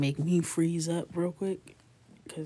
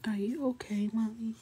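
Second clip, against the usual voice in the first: imitating her son; 5 semitones higher than usual. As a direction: gently voice a small son checking on mom. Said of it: "he's like".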